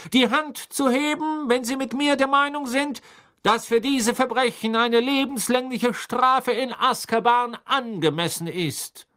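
high, loud, forceful demand; called out. A narrator's reading. Crouch asks the jury for life in Azkaban, calling out. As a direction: demand the verdict loudly from the jury. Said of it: "rief Mister Crouch".

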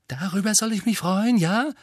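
a high, sarcastic retort; Harry snapping. A narrator's reading. Harry snaps at Hermine over the essay, high and sarcastic. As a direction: snap it back, bitterly sarcastic. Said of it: "fauchte Harry".

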